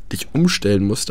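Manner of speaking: normal talking voice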